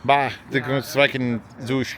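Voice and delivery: mock German gibberish; drunken fake German babble. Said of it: "I start speaking fake German".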